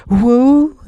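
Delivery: high, loud whoa; shout. A narrator's reading. Tip shouting at the runaway sawhorse, loud and high. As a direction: yell it high to stop the horse. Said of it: "shouted Tip".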